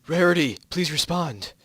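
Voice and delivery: calling out. Acted. Calling into radio.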